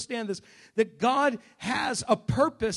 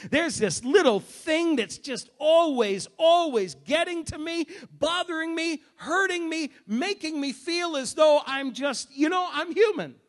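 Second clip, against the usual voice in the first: building shout; 4 semitones higher, 4 dB louder than usual. Real, not acted. Preacher to congregation, rising shout. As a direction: press it out louder and louder.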